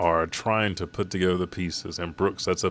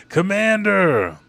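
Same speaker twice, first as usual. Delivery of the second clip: high, loud, long-drawn cry; acted desperate call; 12 semitones higher, 6 dB louder, slower than usual. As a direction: stretch the call out in mock despair. Soldiers call again, more desperately.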